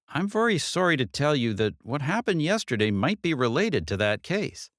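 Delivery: lightly voiced detective, gently breaking bad news. Detective telling Katie yesterday may be linked, lightly voiced. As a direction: soften the blow a little.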